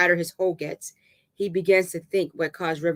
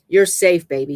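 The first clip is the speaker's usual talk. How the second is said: firm reassurance; soft yet stern; 8 dB louder than usual. A narrator's reading. Dave comforting trembling River, gentle but stern. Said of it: "softly, yet sternly".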